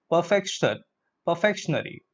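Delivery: "perfectionary" with a FEK-shun-ary ending; mispronunciation. Shown as a demonstration. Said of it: "That's incorrect pronunciation".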